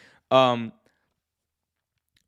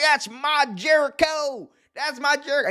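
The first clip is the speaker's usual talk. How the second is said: mock cheering yell, pitched way up; imitating cheering fan; 12 semitones higher than usual. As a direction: holler it like a die-hard fan in the crowd.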